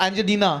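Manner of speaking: "Angelina" slurred to "Anjenina"; quick, tripped-over "Angelina"; said fast, slurred. Shown as a demonstration. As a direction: let the L in "Angelina" slip into an N. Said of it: "if you say it fast".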